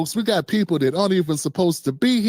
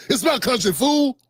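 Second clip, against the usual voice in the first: Debo-style shout; 3 semitones higher than usual. Retold or imitated. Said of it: "They sound like Debo".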